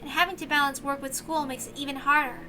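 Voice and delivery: put-on young servant girl bidding farewell; grateful young maid. The speaker's voice.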